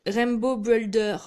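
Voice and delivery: slow English words in a French accent; "Rainbow Builder" spoken slowly, French-accented. Real, not acted. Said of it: "je suis désolée pour mon accent anglais".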